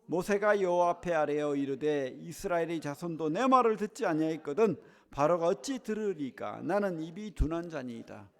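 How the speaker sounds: steady, measured Bible reading aloud; scripture reading. Acted. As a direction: read the verse with the congregation, evenly. Congregation reads scripture aloud.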